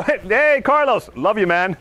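high, playful voiced dog; dog's voice. Dog making peace with the trainer in a high playful voice. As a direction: play the dog making friends, high and light. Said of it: "She would go".

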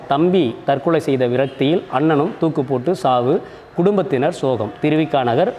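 formal newspaper report read aloud; measured news-reading delivery. Acted. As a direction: read the report out like a newsreader, line by line.

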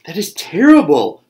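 loud, high bird squawk. A narrator's reading. Bird reacts to news of nine cubs, squawking. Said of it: "squawked the bird".

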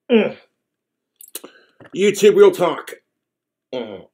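words through a bite; speaking around sandwich; talking with mouth full. Real, not acted. Seen 0: Holds sandwich to mouth, bites into it at 1.3-2.0 s.

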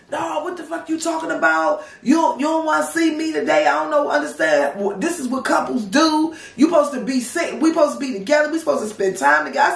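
playing the boyfriend yelling down the phone; retold yelling. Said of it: "he starts yelling".

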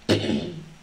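low chesty cough. Real, not acted. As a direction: clear a rough chest. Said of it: "I'm really sorry for coughing".

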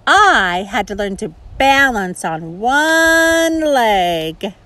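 flamingo voice. Acted.

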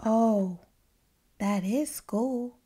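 high, whiny, anxious pigeon; a fretful bird pleading with the reader; the Pigeon's voice. Acted. Pigeon worrying to the reader about school, whiny and high.

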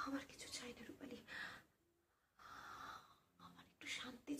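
soft, halting, despairing plea; weary despair. Acted. Tells Rupali they only want peace, softly despairing. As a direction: let the words sink towards silence, broken by long pauses.

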